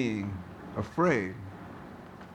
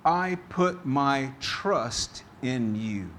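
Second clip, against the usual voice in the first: reading the psalm; slower than usual. Retold or imitated. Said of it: "King David says".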